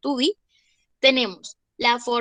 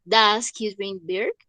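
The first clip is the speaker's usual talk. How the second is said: slow model sentence; 3 semitones lower, slower than usual. Shown as a demonstration. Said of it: "utilizamos el auxiliar das".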